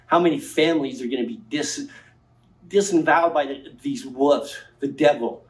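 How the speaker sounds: rising, heated public rant; wild unhinged ranting. Real, not acted. Impassioned public hearing rant.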